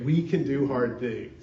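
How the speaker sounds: emphatic, firm call to repeat. Shown as a demonstration. Preacher prompting the congregation to repeat, with conviction. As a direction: say it like you really mean it. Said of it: "let me hear you really say it".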